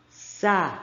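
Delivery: "Sabonete" split into four separate syllables; "Sabonete" sounded out as sa, bo, ne, te. Shown as a demonstration. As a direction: pause after each syllable of "Sabonete". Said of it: "qual é a primeira palavra".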